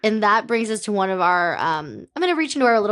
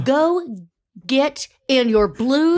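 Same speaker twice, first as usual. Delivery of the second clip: stern order; 4 semitones higher, slower than usual. Acted. Boss orders crew member in improv.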